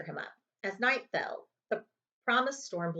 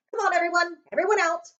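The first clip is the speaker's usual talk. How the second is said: bossy order; 10 semitones higher, 9 dB louder, faster than usual. Acted. Vernon ordering family out.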